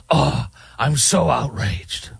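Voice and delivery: slow, sarcastic fake indignation; mock outrage. Host mocking a self-righteous critic, sarcastic slow mock outrage. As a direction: drawl it like a smug scold. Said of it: "talk like I'm, holier than thou".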